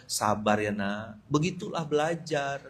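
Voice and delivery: soft, slow motherly consoling; imagined comforting mother. Retold or imitated. Hoped-for mama answering her homesick son, soft slow consoling. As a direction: gently soothe the child, unhurried. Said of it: "mama saya bilang apa?".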